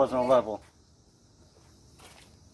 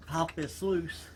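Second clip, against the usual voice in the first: straining, slow, from under the car; grunting effort while lying on your back; 2 semitones higher, 8 dB quieter, much slower than usual. Real, not acted. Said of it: "I know I'm under the car now".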